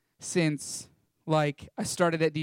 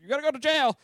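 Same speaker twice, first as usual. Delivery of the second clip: mock authority figure; 8 semitones higher, 4 dB louder than usual. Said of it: "It's like".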